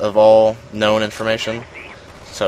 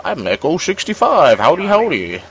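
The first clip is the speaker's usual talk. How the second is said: upbeat, higher howdy-style hello; cheery gamer greeting; 7 semitones higher than usual. Pretend. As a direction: greet everyone like an online buddy, bright and lifted. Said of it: "so I could go".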